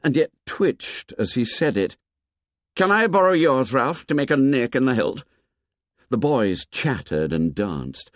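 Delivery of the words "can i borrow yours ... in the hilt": put-on eager boy. A narrator's reading. Jack eagerly asking Ralph for his knife. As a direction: ask eagerly, still buzzing.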